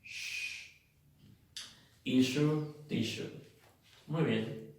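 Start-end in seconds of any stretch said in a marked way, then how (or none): 0.0-0.7 long hushing "sh", no vowel; drawn-out sh sound. Shown as a demonstration. Teacher showing how double S plus U sounds, long "sh". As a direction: hold "sh" as a pure consonant. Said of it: "se pronuncia sh".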